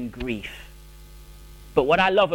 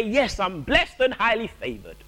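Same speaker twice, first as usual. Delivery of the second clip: forced cheerfulness; 4 semitones higher than usual. Pretend. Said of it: "we say".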